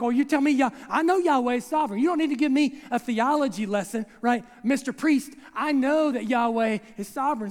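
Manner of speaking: sarcastic, irritated retort; lightly acted sassy wife; mock-sarcastic snap. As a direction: put the know-it-all husband in his place. Elizabeth snaps back at husband.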